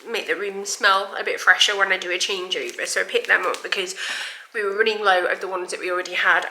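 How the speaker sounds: short of breath, blocked nose; breathless. Real, not acted. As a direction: talk through a stuffed-up nose, gasping. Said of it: "I'm sorry I'm so breathless".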